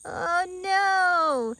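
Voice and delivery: high laughing oh no; mock despair through laughter; amused dismay. Real, not acted. Seeing the pumpkin.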